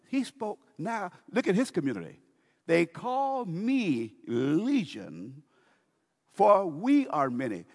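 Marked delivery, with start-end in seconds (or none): 2.7-7.6 slow, loud, high proud boast; possessed man boasting. Acted. Preacher voices the demoniac boasting to Jesus, loud and slow. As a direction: announce it slowly, swelling with pride.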